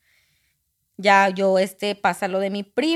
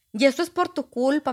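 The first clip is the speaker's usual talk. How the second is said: mild mock reproach; 5 semitones higher than usual. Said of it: "mi mamá le reclama a él".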